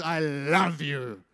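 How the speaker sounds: slow, drawn-out loving words; tender declaration. Retold or imitated. Father hugs his children at arm's length, slow tender declaration. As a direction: linger on it like a hugging father.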